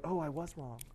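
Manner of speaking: breathy whisper, "I need to change"; whispered mock confession. Pastor voicing a confronted listener's inner reply, whispered. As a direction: hush it like a private thought.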